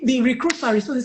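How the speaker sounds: ordinary talk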